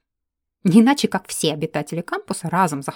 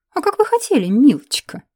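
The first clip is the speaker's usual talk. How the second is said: sneering, higher and louder «милочка»; mocking; 7 semitones higher, 6 dB louder than usual. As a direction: drip mockery onto «милочка». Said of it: "Я с издёвкой произнесла обращение". (с издёвкой, насмешливо «милочка»)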